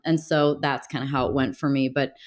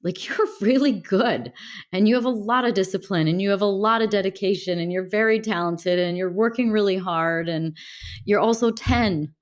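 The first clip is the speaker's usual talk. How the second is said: higher, upbeat, reassuring praise; encouraging his younger self; 4 semitones higher than usual. Retold or imitated. Grown man reassuring his ten-year-old self, higher, encouraging. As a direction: lift him up like a proud coach. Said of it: "telling that ten-year-old".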